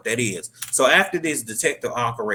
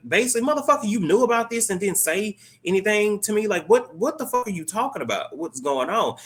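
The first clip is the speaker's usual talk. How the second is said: furious outburst; 11 semitones higher than usual. Retold or imitated. Marissa screaming at Peter for hiding the truth, furious. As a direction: shriek at him in disbelief, pitch way up.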